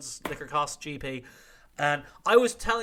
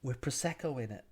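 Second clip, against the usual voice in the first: put-on Northern English accent; 2 semitones lower, 5 dB quieter than usual. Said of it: "She sounded a bit Northern English".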